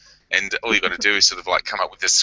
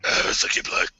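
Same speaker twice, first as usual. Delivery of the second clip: hushed, put-on vampire voice; Italian Vampire; 4 dB quieter than usual. Shown as a demonstration. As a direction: try out a creepy vampire whisper. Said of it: "for Italian Vampire, it could be like".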